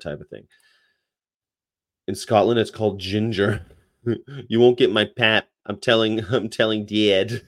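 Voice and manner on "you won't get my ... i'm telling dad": put-on playful Chicago-accented tattling, stretched "Dad"; mock Chicago accent. Playing a kid telling Dad, mock Chicago accent.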